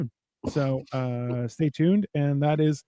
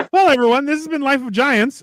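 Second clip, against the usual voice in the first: show sign-off; 8 semitones higher than usual. Acted. Host signs off the show.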